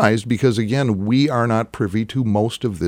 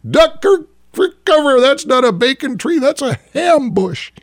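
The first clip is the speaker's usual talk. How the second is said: high loud mock scream; 12 semitones higher, 5 dB louder than usual. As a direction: scream a warning in panic. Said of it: "Hunting buddy screams".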